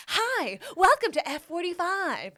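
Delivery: high, loud mock receptionist welcome; greeter. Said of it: "someone's like".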